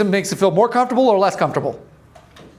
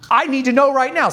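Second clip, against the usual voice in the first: raised voice; 6 semitones higher than usual. Retold or imitated. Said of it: "It raises".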